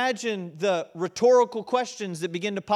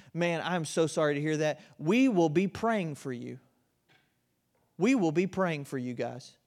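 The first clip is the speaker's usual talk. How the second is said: mock pious brush-off; 3 semitones lower than usual. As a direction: parody an empty church promise. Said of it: "let me put it in modern Christianese".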